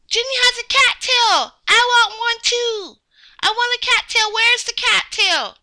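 put-on high, eager little-kid begging; eager envy. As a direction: beg excitedly for one too. Child covets Jenny's cattail.

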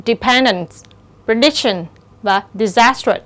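dependence, prediction, disastrous weighted on PEN, DIC, SAS; second-syllable stress. Shown as a demonstration. Teacher lists examples, dependence, prediction, disastrous stressed on syllable two. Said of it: "Nó nhấn âm thứ nhì".

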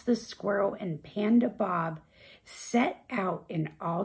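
gentle storybook narration; calm picture-book reading; reading to children. A narrator's reading. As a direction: read the rhyme softly to kids. Reads picture book aloud.

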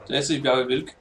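ordinary talk, nothing marked

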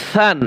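সান begun with a soft th sound; soft letter. Shown as a demonstration. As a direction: say the first sound of সান softly, as th. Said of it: "নরম করে".

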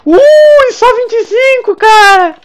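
high, loud startled yelp; grito de susto. Real, not acted. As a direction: shriek at a near death. Quase morre no jogo. (grito assustado e agudo)

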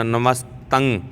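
ਨਮਸਤੰ ending in "tang"; ਨਮਸਤੰ said "namas-tang"; demonstrated pronunciation. Shown as a demonstration. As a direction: close ਨਮਸਤੰ on a nasal "-ng". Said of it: "ਤੱਤੇ ਨੂੰ ਟਿੱਪੀ ਤੰਗ ਬੋਲਣਾ".

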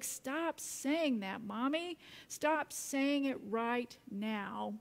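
slow, emphatic mock-child demand; child's protest. Son ordering Mommy to stop, slow mock protest. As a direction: spell it out like an insistent kid, without shouting. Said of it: "Jake yelled back".

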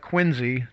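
"Quincy" said as QUIN-zee; local Z pronunciation. Shown as a demonstration. Resident explains an acquired habit, "Quincy" said QUIN-zee. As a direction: say "Quincy" with a z sound in the middle. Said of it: "That's how it's actually pronounced".

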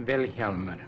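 Wilhelmer with the accent on Wil; stress on first syllable. Shown as a demonstration. Explorer shows interviewer how his name is said, Wilhelmer stressed on its first syllable. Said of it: "The accent's on the first syllable".

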